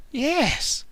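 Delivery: gleeful alien screech; Stitch screech. Acted. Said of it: "Stitch screeched".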